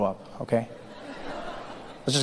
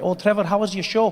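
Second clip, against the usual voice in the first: friendly Scottish lilt, pitched up; Scottish accent; 5 semitones higher than usual. Retold or imitated. Friend greeting comic backstage, imitated Scottish accent. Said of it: "my friend Mick was waiting".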